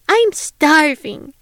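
put-on a child's eager shout, slow and drawn out; hungry little girl shouting to the host. A narrator's reading. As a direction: call out that you're starving. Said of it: "shouted Rose".

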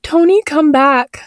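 high, slow pleading call; bawling. Acted. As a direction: wail after the cat, high and slow. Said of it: "I bawled".

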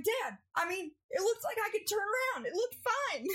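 high pleading excuse; whiny excuse. Retold or imitated. Daughter defending herself to her angry dad, high whiny excuse. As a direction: plead innocence to your dad.

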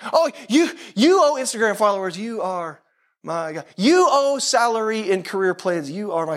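mock devotion. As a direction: pray grandly to trivial idols, tongue in cheek. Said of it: "How many of us would say that?".

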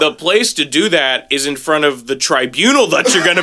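building to a mock shout on the crimes; mock outrage. Joking to his friend about a tribunal, in mock outrage. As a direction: ham up a fake prosecutor's fury.

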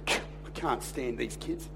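low, slow, quiet imitation of resentment; hushed, drawn-out retold grumble; muttered grievance. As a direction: mutter it darkly under the breath. Voices disgruntled pastor's confession.

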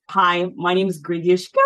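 ending lifted into a question; hesitant rising intro; uptalk introduction. Shown as a demonstration. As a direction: sing the name out rising at the end. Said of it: "almost like singing it out ... it's going up".

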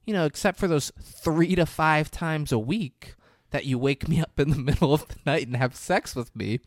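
sarcastic. Retold or imitated. Wife mocking reply.

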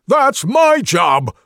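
high, loud, slowed outrage; indignant shouting. Acted. Rogue claiming the slinking job, indignant shouting. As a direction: protest like a wounded professional.

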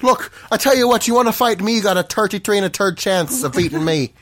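cocky mock-Irish challenge; Irish accent. Shown as a demonstration. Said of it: "in your best Irish accent".

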